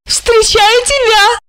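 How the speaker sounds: намного выше, медленно; Ольга, нежно-игриво; голос Ольги. Acted. (Ольга встречает Жарона)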